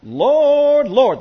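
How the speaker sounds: loud high call of "Lord" falling on the second; false believers crying out loud "Lord, Lord"; emphatic cry. Retold or imitated. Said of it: "That's emphatic".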